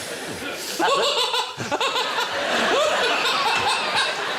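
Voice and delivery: high whooping hyena cackle; long cackling hyena giggle; hyena laugh. Shown as a demonstration. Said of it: "That's a good hyena".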